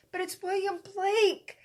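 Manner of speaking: high, drawn-out indignant whine; whiny plea. Retold or imitated. A daughter begging her dad, in a high whiny plea. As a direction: plead as if it's obvious.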